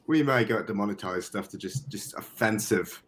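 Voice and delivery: amateur posh London accent; put-on British accent. Shown as a demonstration. Podcaster owning up to a bad accent, in mock British. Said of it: "So this is my British accent".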